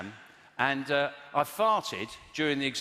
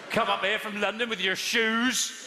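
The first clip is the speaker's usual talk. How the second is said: yokel local; 6 semitones higher than usual. Retold or imitated. Yokel villager mocking londoner.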